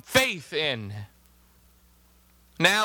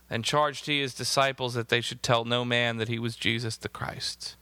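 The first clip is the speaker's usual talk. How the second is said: lower, even read-aloud voice; scripture reading; 8 semitones lower than usual. Acted. Preacher reads Gospel verses to the congregation, scripture reading. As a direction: read the verses out evenly, pitched down.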